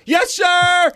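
high, loud "Yes, sir!" like a startled cadet; scared boy shouting back to his stepdad; frightened kid shout. Retold or imitated. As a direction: snap to attention in fear.

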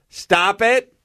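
high-pitched mock yell of a scolding coach; imitated yell. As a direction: call out the correction like an improv teacher, without full volume. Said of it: "And she'll yell".

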